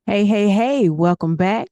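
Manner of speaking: loud, high, pumped-up hello; hype greeting. Real, not acted. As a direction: call out to the crowd like a show host. Host greets the audience loudly.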